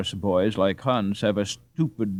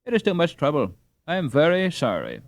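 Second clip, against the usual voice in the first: earnest; 7 semitones higher, 3 dB louder than usual. Acted. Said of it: "cried Hans earnestly".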